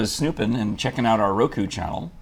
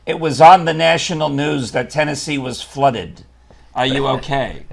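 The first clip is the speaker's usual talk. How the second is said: a louder, higher worried mother; imitating worried mom; 5 semitones higher, 8 dB louder, slower than usual. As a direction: mom fretting, loud and slow. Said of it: "she called me the other day and said".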